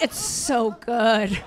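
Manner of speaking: slow, drawn-out mock moan of pleasure; hammed-up swooning, stretched out; mock ecstasy. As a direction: imitate an overexcited fan savoring every word. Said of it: "like, coming right now".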